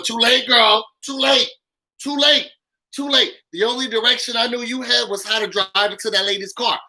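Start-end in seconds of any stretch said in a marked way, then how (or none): 0.0-3.3 sassy retort. Real, not acted.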